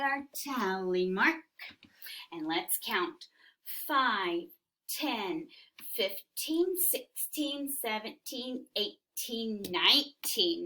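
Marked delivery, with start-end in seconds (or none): 2.3-3.3 hushed unvoiced prompt; whispering. Shown as a demonstration. 6.9-10.6 soft counting. Shown as a demonstration. Quiet counting with class.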